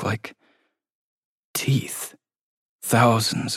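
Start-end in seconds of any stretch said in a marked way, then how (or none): 0.0-2.2 whisper. A narrator's reading. Ceiling bumps turn into teeth.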